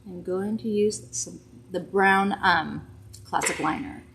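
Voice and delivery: muffled behind a hand; talking through her hand; hand over mouth. Real, not acted. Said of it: "I'm talking through my hand".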